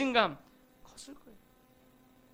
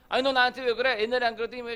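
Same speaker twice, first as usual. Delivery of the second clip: louder, accusing a friend; half-acted demand for an explanation, louder; mock confrontation; 3 semitones higher, 6 dB louder, faster than usual. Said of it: "이렇게 따져요".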